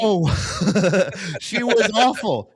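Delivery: real disbelieving laugh. Real, not acted.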